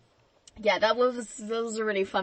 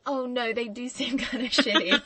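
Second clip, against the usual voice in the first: laughing; 4 semitones higher than usual. Retold or imitated. Mocking the parents, laughing.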